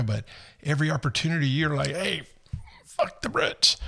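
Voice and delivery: a hint of a cheerful Englishman; imitating the British guy. British guy praises Americans, in a light mock British accent. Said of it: "he goes".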